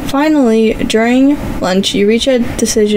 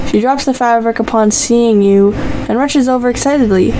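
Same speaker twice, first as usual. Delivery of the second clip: bright, even storyteller read; story narration. A narrator's reading. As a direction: read the story to your viewers. Reads interactive story narration.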